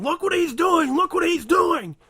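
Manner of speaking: loud, high-pitched mock alarm; outraged tattling shout. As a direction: yell it out like you're publicly calling someone out. Mock alarm calling a coworker out.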